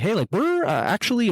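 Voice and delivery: lightly put-on Australian voice; imitated Australian accent. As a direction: do a friendly Aussie opener. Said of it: "we're gonna cut the accent now".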